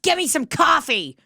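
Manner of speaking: high, brash mock demand; speaker's own movie character. Putting herself in an old movie, brash mock demand. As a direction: demand it with comic bluntness. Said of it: "I would just be like".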